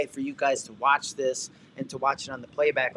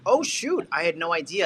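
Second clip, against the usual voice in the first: surprised; 3 semitones higher, 4 dB louder than usual. Retold or imitated. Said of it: "that you were like".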